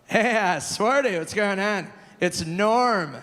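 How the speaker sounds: a hint of Norm's laid-back drawl on the phone; Norm impression. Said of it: "And he would go".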